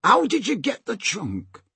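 high-pitched taunting call. Acted. Slank questions Peter out on the rock, high call. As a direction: project the question across the water. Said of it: "He called out to Peter".

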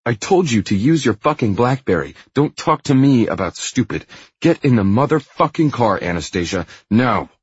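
loud, high furious rant; angry shouting. A narrator's reading. Christian ordering Anastasia into the car, shouting. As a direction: shout the orders at her in a rage. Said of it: "Stop shouting at her".

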